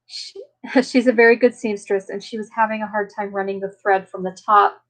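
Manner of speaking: normal talking voice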